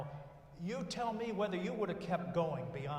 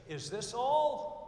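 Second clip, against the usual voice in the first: slow, loud whine, much higher; spoiled kid; 6 semitones higher, 9 dB louder, much slower than usual. Retold or imitated. Spoiled kid whines to mother at Christmas, slow and loud. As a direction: whine like a disappointed spoiled child. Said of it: "looks up at his mother and says".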